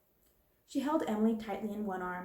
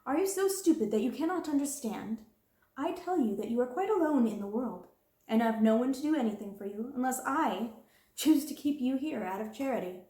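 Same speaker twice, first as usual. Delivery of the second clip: higher, louder, scornful lecture; contemptuous scolding; 4 semitones higher, 4 dB louder than usual. Acted. Scornful berating. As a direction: headmistress berating the orphan, scornful and loud.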